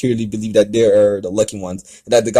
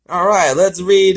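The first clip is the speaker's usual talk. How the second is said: high, louder mock cheer; sarcastic; 9 semitones higher, 6 dB louder than usual. Real, not acted. Reader introducing a crappy fanfic, mock cheer. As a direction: announce it with fake enthusiasm.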